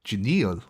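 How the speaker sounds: Genial said the French way, zhay-nee-AHL; French pronunciation. Shown as a demonstration. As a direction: try Genial as a French word. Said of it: "Is that how you say it?".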